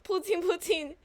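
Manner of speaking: loud, high cartoon French accent; terrible French accent. Desiree warning she will be cross, loud mock French accent. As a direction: scold playfully in a silly French accent. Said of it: "is my terrible accent".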